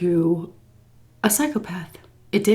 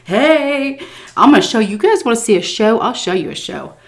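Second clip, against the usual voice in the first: brash boast; 3 semitones higher, 3 dB louder than usual. Retold or imitated. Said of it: "push bitches off stage and be like".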